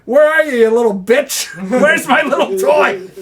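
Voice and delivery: high, loud mock call for Letty; hammed-up yell hunting for a pet; playful high-pitched shouting impression.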